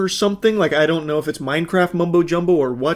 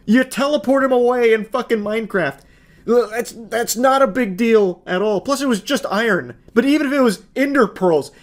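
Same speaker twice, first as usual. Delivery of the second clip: higher, indignant disbelief, building to who cares; exasperated rant; 6 semitones higher than usual. Real, not acted. YouTuber ranting at a Minecraft boyfriend's overreaction, pitched high in disbelief. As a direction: rant at how small the whole thing is.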